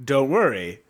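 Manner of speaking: smug reassurance. Retold or imitated. Voicing the condom guy smugly.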